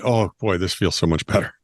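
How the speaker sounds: mock relieved murmur to himself; acted relief. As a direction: let the relief settle in, voice dropping. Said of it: "And him going".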